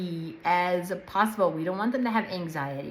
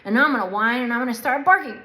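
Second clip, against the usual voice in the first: rising to a louder, higher dog's eager plan; 4 semitones higher, 4 dB louder, faster than usual. Pretend. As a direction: play the dog getting worked up and pushy. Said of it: "they're like".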